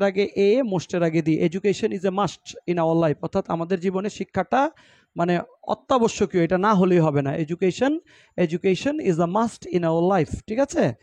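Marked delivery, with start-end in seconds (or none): 1.4-3.2 very slow, word by word; slow model reading. Shown as a demonstration. Teacher reading example sentence slowly. 7.4-10.4 very slow, word by word; slow model reading. Shown as a demonstration. Teacher rereads example slowly.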